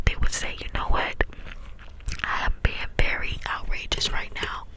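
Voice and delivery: cupped hand whisper, close to the mic. Real, not acted. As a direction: whisper through cupped hands. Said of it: "I'm trying to do the cup whispers".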